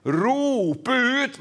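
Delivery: preacher's measured cry; calling out. Acted. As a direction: stretch it out as a mild shout. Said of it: "Og da gjelder det å rope".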